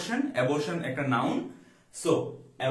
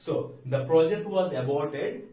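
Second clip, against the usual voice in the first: slow dictation; 3 dB louder, much slower than usual. Shown as a demonstration. Teacher repeats example slowly.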